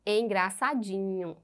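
"Engraçadinho" said slowly and carefully; careful pronunciation. Shown as a demonstration. Teacher showing children the pronunciation, "Engraçadinho" slow and careful. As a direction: pronounce "Engraçadinho" slowly for listeners to follow. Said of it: "Observe a pronúncia".

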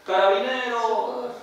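mock yells for the neighbour; calling out. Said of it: "se pone a gritar, a llamar". (llamada de auxilio imitada, aguda)

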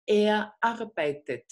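slow "arbeitet" with every syllable clear; phonetic e. Shown as a demonstration. Teacher models "Er arbeitet" slowly with the phonetic e. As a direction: say "Er arbeitet" slowly, "ar-bei-tet". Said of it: "otra vez la E fonética".

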